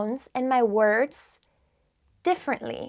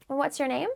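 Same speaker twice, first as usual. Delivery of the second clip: "And what's your name" lifting up on "name"; rising question intonation; 2 semitones higher, 6 dB quieter, faster than usual. Shown as a demonstration. Teacher shows learners an English question, voice rising. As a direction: let the pitch climb at "name". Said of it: "my voice was rising".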